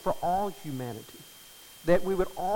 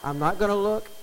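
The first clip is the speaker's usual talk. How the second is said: playful exclaim; 6 semitones higher, 8 dB louder than usual. Real, not acted. Teasing about grandbaby picture.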